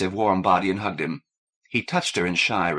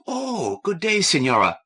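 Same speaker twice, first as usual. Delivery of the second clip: high flustered "Oh", then polite; startled greeting; 9 semitones higher than usual. Acted. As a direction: caught off guard, quickly polite.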